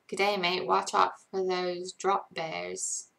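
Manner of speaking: understated Australian accent. Shown as a demonstration. Streamer warns about drop bears, light Australian accent. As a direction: give a casual warning in an Australian accent. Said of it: "Australian accent".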